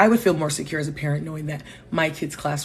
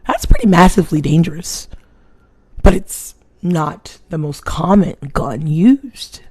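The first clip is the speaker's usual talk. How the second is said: retold argument; 3 semitones higher, 9 dB louder than usual. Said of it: "I'm like".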